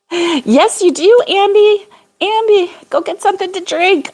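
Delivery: high, eager urging; cheering a viewer on; high-pitched playful insistence; excited urging. Real, not acted.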